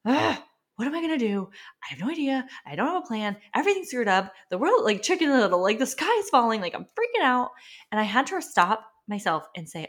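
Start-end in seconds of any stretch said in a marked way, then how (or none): 0.1-7.5 panicked self-quote. Retold or imitated. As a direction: replay her own sky-is-falling freak-out. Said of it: "where I'm like".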